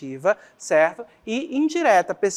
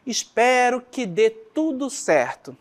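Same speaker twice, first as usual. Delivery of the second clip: desejo sincero; 4 semitones higher, slower than usual. Shown as a demonstration. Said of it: "estou desejando algo bom".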